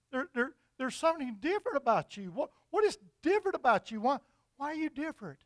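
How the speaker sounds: a touch of amazed questioning; mildly astonished. Acted. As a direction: press him, puzzled and incredulous. Astonished soldier questions the man.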